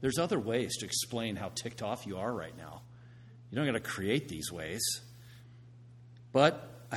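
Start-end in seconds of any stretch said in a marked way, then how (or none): 0.0-4.8 soft, lower gentle correction. Retold or imitated. Coach gently correcting a fellow coach's cussing, gentle. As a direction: correct him softly, without pushing. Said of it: "I just said to him in a gentle way".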